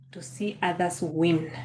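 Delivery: slow, whispered emphasis. Acted. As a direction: let the phrase fade into a whisper. Repeating a phrase for emphasis.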